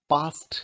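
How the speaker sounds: "पास्ट" in one syllable, ending "st". Shown as a demonstration. Teacher models passed after s, ending pronounced "t". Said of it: "इसमें स है".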